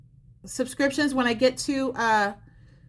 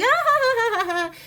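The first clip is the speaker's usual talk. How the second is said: high, loud fake laughing; mock crowd laughter; 9 semitones higher, 3 dB louder than usual. Mimicking a laughing room for a viewer, mock laughter. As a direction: ham up a room full of laughing. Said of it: "everybody's like".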